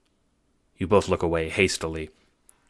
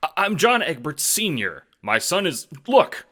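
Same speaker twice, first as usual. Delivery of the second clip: flustered pleading; 10 semitones higher, 4 dB louder than usual. A narrator's reading. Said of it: "fearful hand".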